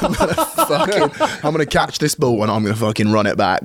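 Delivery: pumped up. Retold or imitated. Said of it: "And I'm, like".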